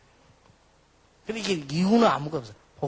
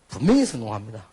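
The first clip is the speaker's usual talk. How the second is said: ordinary talk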